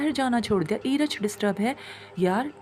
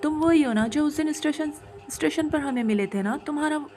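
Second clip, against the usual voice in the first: raised, panicky voice crying out at the spirit; frantic yelling; 3 semitones higher than usual. Acted. Husband shouting at the spirit in terror, frantic yell. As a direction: shout it like you finally recognise the monster. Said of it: "वो इतना चीख रहे थे".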